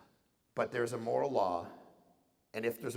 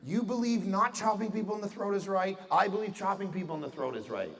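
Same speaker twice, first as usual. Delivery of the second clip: mock casual bro; 5 semitones higher than usual. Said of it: "I go".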